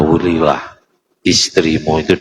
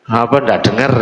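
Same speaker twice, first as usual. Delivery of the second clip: speaking loudly; 5 semitones higher than usual. Retold or imitated. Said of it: "cuma ngomongnya keras".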